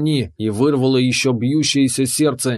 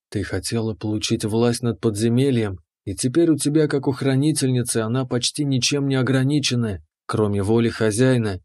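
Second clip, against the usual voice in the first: calm keeper; 2 semitones lower than usual. Acted. Keeper explains.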